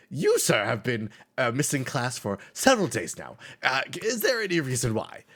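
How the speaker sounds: the hall monitor quizzing a truant, a bit high and loud. Acted. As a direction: question him like a prim hall monitor. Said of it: "and goes".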